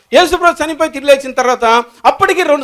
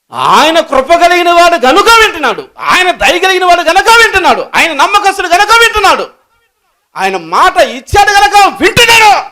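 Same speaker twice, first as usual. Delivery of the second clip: louder, higher, near crying; tearful preaching; 7 semitones higher, 4 dB louder, slower than usual. Real, not acted. Preacher tells the church God listens, voice breaking with tears. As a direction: plead it with tears in the voice. Preacher's emotional climax on grace.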